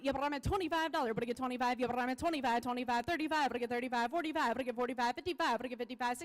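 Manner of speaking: rapid rolling auction chant; auctioneer. Acted. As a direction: rattle off the bids like an auctioneer. Auction chant bid calling.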